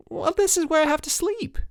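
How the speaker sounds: put-on high, pushed-up kid's shout; shouting Mike's complaint; shouted line. A narrator's reading. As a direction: call it out, fed up. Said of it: "shouted Mike".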